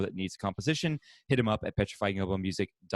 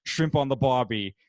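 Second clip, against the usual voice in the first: awful Australian impression; 4 dB louder than usual. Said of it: "my awful ... impersonations".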